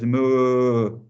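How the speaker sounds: long drawn-out moo; cow's moo. Retold or imitated. Showing the word by the cow's sound, drawn-out moo. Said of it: "Like the cow here says".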